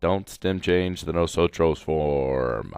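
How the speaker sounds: slow, deliberate; slow emphatic reminder. Shown as a demonstration. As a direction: spell the rule out slowly for the class. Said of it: "Once again".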